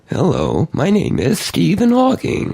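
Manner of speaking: slow, stepped robot voice; Stephen Hawking impression. Host demonstrating a voice changer setting, robot voice impression. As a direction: mechanical synthesizer delivery, slow and syllabic. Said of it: "do a robot Stephen Hawking voice".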